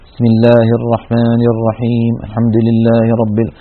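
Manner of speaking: mock recitation of الرحمن with the mouth barely opening, slow; teacher imitates a reciter who keeps his jaw shut; closed-mouth recitation. Shown as a demonstration. تلاوة بفم مغلق. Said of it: "وكأن فمه مغلق".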